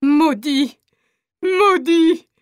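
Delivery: crying out a curse, voice breaking; despairing curse. Acted. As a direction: curse them through tears. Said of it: "La mère folle de désespoir".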